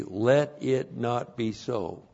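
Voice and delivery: soft, slow, mild reading; unemphatic. Shown as a demonstration. Teacher showing how weak the literal translation sounds, unemphatic. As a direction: understate it, slowly and softly. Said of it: "That doesn't sound very emphatic".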